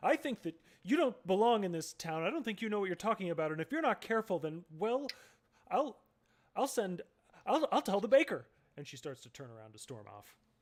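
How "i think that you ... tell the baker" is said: raised, high-pitched, loud voice. A woman in the scene tells someone they don't belong in town, raised voice. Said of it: "she kind of raises her voice".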